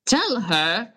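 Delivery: slow, strained character voice. Acted. Skylark urges Chuckles to confess feelings, strained voice. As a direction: strain it out, dragging the last words. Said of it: "in a very strained kind of voice".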